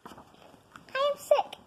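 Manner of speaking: slow dramatic. Acted.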